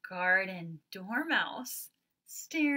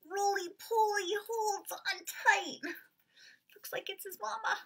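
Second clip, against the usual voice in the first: dramatic read; 12 semitones higher than usual. Acted. Excited then whispered reading.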